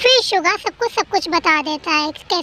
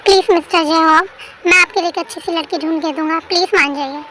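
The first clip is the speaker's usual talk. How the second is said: louder, insistent begging; louder plea; 4 dB louder than usual. Acted. Friend begging the groom to call off the wedding, loud pleading. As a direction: push the plea up in volume. Begging again, pushing harder.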